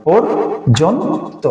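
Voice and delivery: পর্যন্ত drawn out very slowly, syllable by syllable; পর্যন্ত said very slowly, spelled out by sound; slow demo pronunciation. Shown as a demonstration. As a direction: stretch out পর্যন্ত slowly with a rising end. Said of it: "পর্যন্ত উচ্চারণটা করেন".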